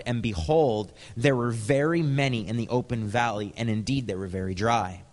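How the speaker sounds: a lightly heightened Bible reading; scripture reading. Acted. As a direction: read the passage like proclaiming it. Reads Ezekiel scripture aloud.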